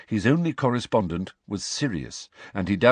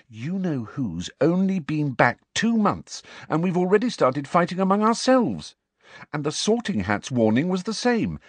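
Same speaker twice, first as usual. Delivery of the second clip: pressing on loudly; 8 semitones higher than usual. A narrator's reading. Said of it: "Hermione pressed on loudly".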